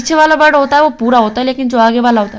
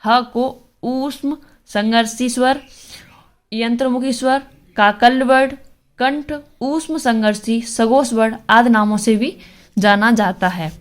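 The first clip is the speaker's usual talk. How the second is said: ऊष्म संघर्षी spelled out slowly, term by term, for note-taking; careful slow repeat. Shown as a demonstration. Teacher slowly repeats the terms for students to note. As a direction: say each name of ह slowly and clearly so students can write it down. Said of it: "आप दोबारा से सुन लीजिए".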